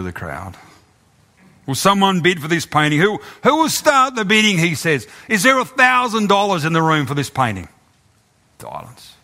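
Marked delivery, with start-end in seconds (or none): 1.7-4.6 raised, insistent auctioneer's call; auctioneer pressing. Acted. Auctioneer presses the silent crowd for a bid. 5.3-7.7 raised auctioneer's asking call; name the price to the room. Acted. Auctioneer asks the crowd for a thousand.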